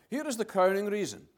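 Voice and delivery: Here is the crowning reason, with crowning given full weight; stress on crowning. Shown as a demonstration. Preacher correcting his wording to the congregation, weighting crowning. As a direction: lean into crowning as the better word. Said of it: "I would rather say it like this".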